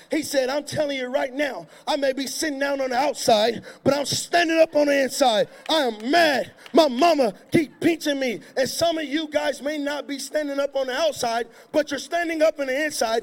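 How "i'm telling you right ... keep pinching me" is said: put-on louder, indignant boy's outburst; angry little boy. Boy tells a stranger how mad he is, indignant and loud. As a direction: let the boy's anger burst out.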